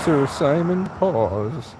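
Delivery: slow, drawn-out mock-royal naming; grand title. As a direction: dub the cat a knight, slowly.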